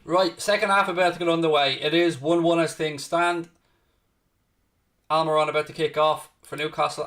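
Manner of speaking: measured live football play-by-play; match commentary. Real, not acted. Football watch-along host calls the second-half kick-off, commentary voice. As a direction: call the restart for viewers, lightly lifted.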